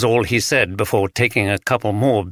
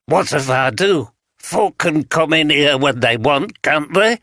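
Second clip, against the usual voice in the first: put-on Yorkshire accent; 5 semitones higher than usual. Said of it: "spoke in the broad Yorkshire accent".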